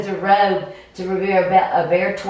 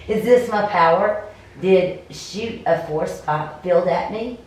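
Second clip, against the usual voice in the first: game master narration; 2 semitones lower than usual. Acted. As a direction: paint the scene, unhurried.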